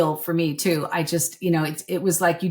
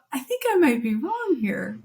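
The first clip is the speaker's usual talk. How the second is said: drawn-out, higher aha voice; slow mock admission of error; mock realisation; 7 semitones higher than usual. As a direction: play the sheepish dawning of being wrong. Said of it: "you go".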